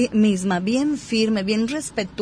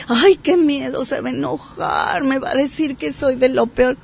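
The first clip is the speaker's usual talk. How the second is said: fearful inner voice; 3 semitones higher than usual. Retold or imitated.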